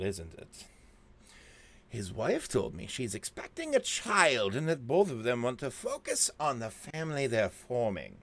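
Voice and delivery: lightly voiced crazy Joker-style villain; unhinged villain. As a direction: read the letter like a deranged villain. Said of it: "I should do the crazy voice for Doctor Holtwick".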